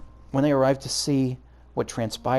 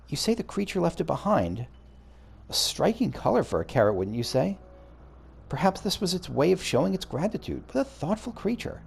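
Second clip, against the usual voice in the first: a touch of wonder, pitched higher; lightly voiced curious observer; 6 semitones higher than usual. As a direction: lightly play an intrigued game character. Voices long-haired observer in game.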